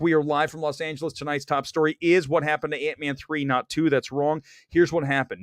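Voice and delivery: brisk host news read; news-style rundown. Acted. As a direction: run through the headlines like an anchor. Super speed show read.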